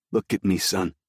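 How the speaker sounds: firm but patient father; stern father. A narrator's reading. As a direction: speak as a stern, patient dad. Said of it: "His voice was stern".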